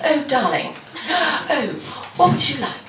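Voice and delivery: a fussing posh English husband, lightly done; posh British accent. Retold or imitated. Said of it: "I'm gonna do the accent".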